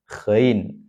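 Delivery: ghain with gh rasped like a snore; snore-placed GHAIN. Shown as a demonstration. Teacher helping those who struggle, ghain with snore-like gh. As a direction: find the snoring spot to start ghain. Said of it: "tidurnya ngorok itu biasanya gampang".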